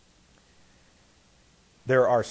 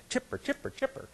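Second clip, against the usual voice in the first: chipper; 13 semitones higher, 8 dB quieter than usual. Retold or imitated. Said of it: "And the little girl".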